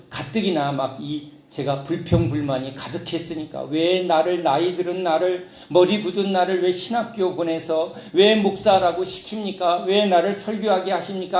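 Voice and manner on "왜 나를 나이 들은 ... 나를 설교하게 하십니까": grumbling. Retold or imitated. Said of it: "막 투덜거리는 그 투덜거림".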